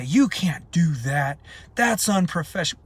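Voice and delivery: imitating people coming down hard; mock reprimand, pushed up at the end; scolding critics. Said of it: "come down on him hard".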